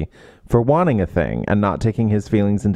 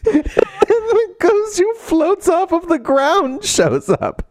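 spooky announcer; much slower than usual. Pretend. Announcing the ghost dramatically.

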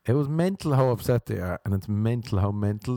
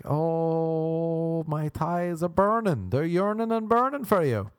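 swooning date; 7 semitones higher, slower than usual. Retold or imitated. Date swooning at flute player.

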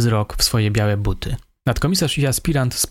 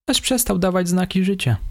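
higher, meek voice of the suspect; 8 semitones higher than usual. A narrator's reading. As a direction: play the timid young killer, higher. Suspect answers.

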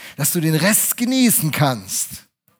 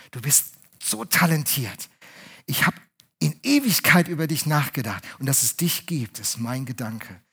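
Jesus speaking tenderly; 3 semitones lower than usual. Retold or imitated. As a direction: speak gently, as if to one beloved woman. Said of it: "guckt er dich an und sagt".

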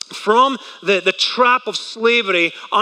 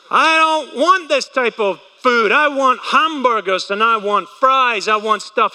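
whiny complaining Israelites; 3 semitones higher than usual. Acted. Israelites grumbling to Moses about food, mock whiny.

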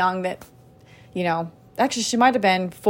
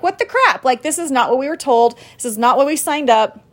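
frustrated; 3 semitones higher than usual. Retold or imitated. Moms vent at the broken team promise, frustrated. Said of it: "I'm frustrated".

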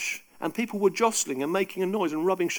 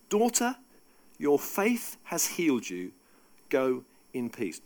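slower, gentle "Daughter, your faith has healed you"; Jesus gently sending the woman away in peace, slower; tender repeat; slower than usual. Shown as a demonstration. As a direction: let Jesus bless her, unhurried.

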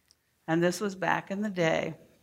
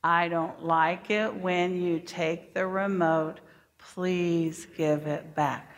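slow, calm and even; calm teacher modelling the right way; slower than usual. Shown as a demonstration. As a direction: say it calmly, modelling for the class. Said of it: "Everyone say that with me".

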